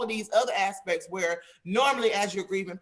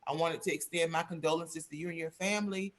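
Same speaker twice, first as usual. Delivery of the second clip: sincere condolence call; 4 semitones lower, 5 dB quieter than usual. Shown as a demonstration. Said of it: "get on the phone and say".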